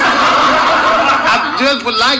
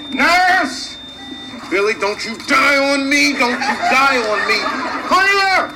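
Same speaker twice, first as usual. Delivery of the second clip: panicked shouting; 5 semitones higher than usual. Acted. Kid dying, calls nurse.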